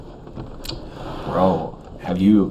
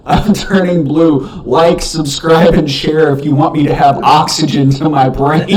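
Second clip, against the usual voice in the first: mock desperate plea; 6 semitones higher, 7 dB louder than usual.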